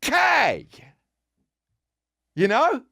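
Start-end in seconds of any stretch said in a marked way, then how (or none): 0.0-0.7 high, airy imitation of her; a hammed-up blank okay; mock ditzy K. Comic mocking the woman who got swindled, high airy. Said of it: "And she just says".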